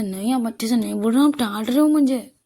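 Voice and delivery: insistent, rising complaint; sulky protest. Acted. Girlfriend protests at being scolded by her partner, sulky insistence. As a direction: push back like someone unfairly scolded.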